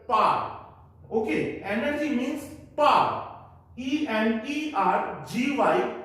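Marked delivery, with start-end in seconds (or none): 0.1-0.6 "पार" as a single paar, no w; one-syllable "पार". Shown as a demonstration. Teacher repeats the model for pupils, one-syllable "पार". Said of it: "we will pronounce this word as".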